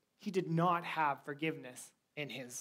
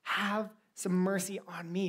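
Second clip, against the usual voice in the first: begging servant; 3 semitones higher, slower than usual. Acted. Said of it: "he probably begged".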